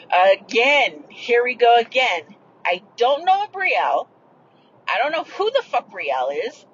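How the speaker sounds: exasperated, emphatic denial; retold anger. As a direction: spell it out, fed up with being asked. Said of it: "I was angry".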